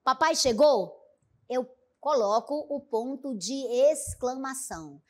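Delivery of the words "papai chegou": "Papai chegou?" asked as a question; "Papai chegou?" with questioning tune. Shown as a demonstration. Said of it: "quero fazer uma pergunta".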